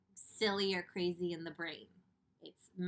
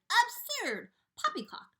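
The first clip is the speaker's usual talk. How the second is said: high, loud shout; loud, pitched-up scoffing shout; 9 dB louder than usual. Acted. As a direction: shout him down in scorn. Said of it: "they shouted".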